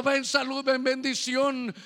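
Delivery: imitating the church all shouting their requests; mock shouted prayer. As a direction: call out like a crowd praying aloud. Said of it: "como todos gritando".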